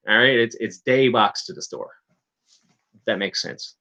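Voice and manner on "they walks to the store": "they" begun with a hard D or T, like "day"; Newfoundland stopped TH on "they"; Newfie no-TH. Shown as a demonstration. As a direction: drop the TH, say "they" as "dey". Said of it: "there's no T H in Newfie".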